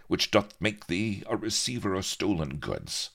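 lightly voiced pirate prosecutor; pirate leader passing judgement. Pirate leader charges captain with theft, a hint of pronouncement. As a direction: read out the charge in old pirate speech.

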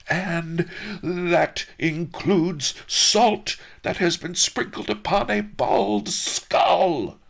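high, loud, slow furious farmer; angry yell. A narrator's reading. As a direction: bellow it in accusation. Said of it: "the farmer yelled".

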